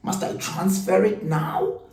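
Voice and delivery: mock dad putting on a sweet show for the camera; fake camera-ready husband. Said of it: "as if they, they were on camera".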